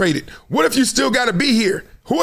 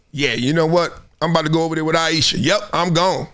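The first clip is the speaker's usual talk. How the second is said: mock resigned decision; 5 semitones lower, faster than usual. Imagined partner decides to leave.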